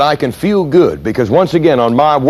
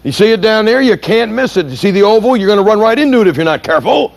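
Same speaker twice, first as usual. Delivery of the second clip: sarcastic; 9 semitones higher than usual. Retold or imitated. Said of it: "And he says".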